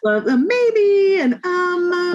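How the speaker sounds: very high, drawn-out dithering; mock hesitation, loud and squeaky; doubtful voice. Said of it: "it's the doubt language stuff".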